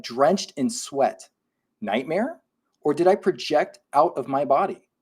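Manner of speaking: storytelling delivery with sweeping pitch, key words stretched; dramatic read-aloud. Acted. Host reads a listener's sleep paralysis story, dramatic read-aloud. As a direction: read it like a spooky tale, punching key words.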